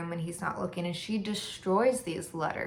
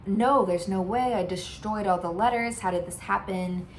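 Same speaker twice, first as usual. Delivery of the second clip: louder retold panic, easing off after the first words; mild mock freak-out; 4 dB louder than usual. Lara learns her betrayal got through, mildly freaking out. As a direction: play a light freak-out, starting loud. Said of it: "freaking out".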